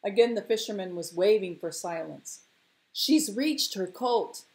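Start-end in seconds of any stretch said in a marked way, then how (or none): 2.9-4.4 high, drawn-out triumphant call; crowing. Acted. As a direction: crow the good news. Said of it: "he crowed".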